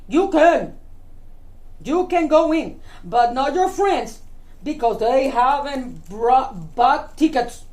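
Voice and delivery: firm, emphatic gatekeeper; grouchy grasshopper. Acted. Grasshopper lets Betty in but bars friends, grouchy. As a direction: refuse them like a grumpy ticket seller.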